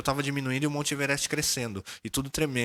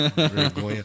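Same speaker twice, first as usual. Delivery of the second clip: embarrassed laugh; 3 semitones higher, 6 dB louder than usual. Real, not acted.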